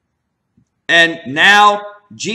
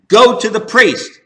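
emphatic command; 3 semitones higher, 6 dB louder than usual. Retold or imitated. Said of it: "absolutely emphatic".

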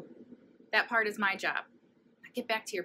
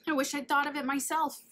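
excited; 7 semitones higher, 6 dB louder than usual. Acted. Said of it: "shrieked Nebraska".

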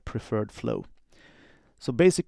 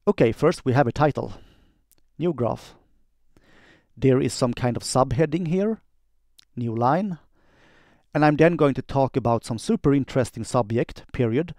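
dictating. Shown as a demonstration. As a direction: dictate clearly, every word spelled out for the machine. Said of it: "quick demo of how I do dictation".

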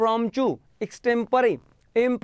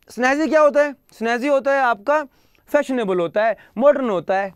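emphatic teaching; 3 semitones higher, 5 dB louder than usual. Real, not acted. Teacher emphasising word meaning.

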